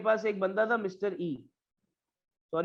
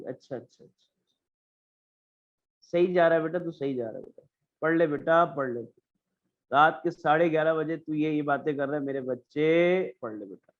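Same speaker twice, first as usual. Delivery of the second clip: mock parent scolding; 5 semitones lower than usual. Parent scolding kid up late.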